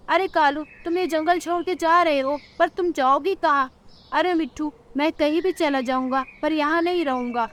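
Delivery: a friend urging revenge; parrot and crow friends. Acted. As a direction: parrot advising the lonely crow.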